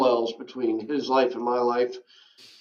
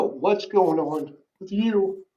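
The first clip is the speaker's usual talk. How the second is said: high, drawn-out stranger's question, lightly voiced; imitating Tommy, slower; 6 semitones higher, slower than usual. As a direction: lean in, slow and probing. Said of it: "earth-shattering pitch to his voice".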